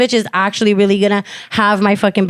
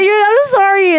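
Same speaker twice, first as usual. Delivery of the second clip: retold weepy apology; 10 semitones higher than usual. Acts out her apology while hugging.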